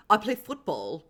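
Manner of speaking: put-on playful British accent on football; tossing off a quick fake British line to Katie; mock British accent. A light put-on British accent. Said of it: "That was my British accent".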